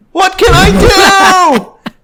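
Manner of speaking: slow, very high falsetto shout; hammed-up helpless owner, shrieking high; John. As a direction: wail it in a loud cartoon panic. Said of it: "And then John says".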